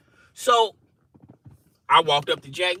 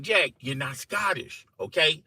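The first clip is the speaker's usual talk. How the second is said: exasperated insistence, climbing higher as it goes; arguing; 5 semitones higher than usual. Retold or imitated. Arguing with Jack that he's not Scottish, increasingly insistent. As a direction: build from level to high-pitched protest. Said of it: "I'm up here arguing with Jack".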